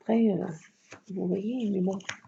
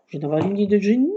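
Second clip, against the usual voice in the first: quick and louder, excited; sudden idea; 5 dB louder, faster than usual. Real, not acted. To viewers, announcing her brilliant idea excitedly.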